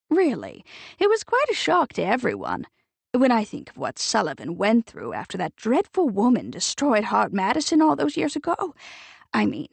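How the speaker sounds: lightly voiced society lady, scolding; a hint of a prim committee lady tutting; prim disapproving matron. Edith reproaching Nick about the family firm, prim and disapproving.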